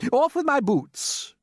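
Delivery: very high, loud, slow shout. A narrator's reading. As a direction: bellow it in a panic. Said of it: "shouted the centipede".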